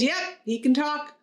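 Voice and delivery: slow, offhand joke-character reply; laid-back, unhurried confirmation; casual and relaxed. Acted. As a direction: play the unfazed store owner. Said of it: "casual and relaxed".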